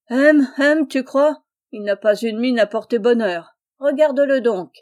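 hearty, loud disbelief; sceptical. A narrator's reading. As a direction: scoff at the idea in a lifted voice. Kersac doubts Jeannot brings luck.

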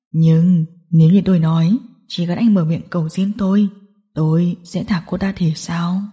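low, taunting gangster; lightly voiced boss, slowing at the end; villain making an offer. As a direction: dangle a deal mockingly.

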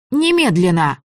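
high, loud demand; shout. A narrator's reading. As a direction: shout it as a child's order. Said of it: "крикнула я".

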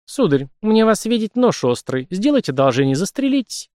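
put-on scornful young lady telling him to shoot himself; contemptuous. A narrator's reading. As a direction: sneer it down at him. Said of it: "презрительно скривившись".

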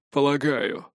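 slow, rasping, broken voice; hoarse broken voice. A narrator's reading. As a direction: unpleasant cracked rasp. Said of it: "произносит он неприятным, хриплым, сломанным голосом".

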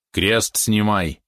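slow, hoarse, strained command; forced out through a tight throat; голос охрип от волнения; hoarse with emotion. A narrator's reading. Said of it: "От волнения голос купца охрип".

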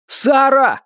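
high-pitched call; shouting. A narrator's reading. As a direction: call out her name, voice leaping up. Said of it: "крикнул Джонни".

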